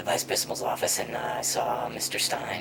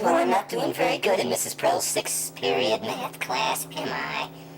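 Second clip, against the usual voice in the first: loud, high outburst to a cop; hammed-up, high-pitched excuse; acted protesting boy; 6 semitones higher, 4 dB louder than usual. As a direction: protest loudly as a cornered schoolboy. Boy's acted answer to the cop.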